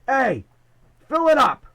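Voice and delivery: loud, high yell out a car window; shouted demand. Retold or imitated. Tommy yelling from his car for gas, loud and high. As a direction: bark it across the gas station. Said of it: "He screams out the window at me".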